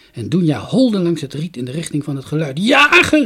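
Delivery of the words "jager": high, loud long-distance hail; urgent high shout; calling out. A narrator's reading. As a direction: yell to someone far off. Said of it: "riep ze".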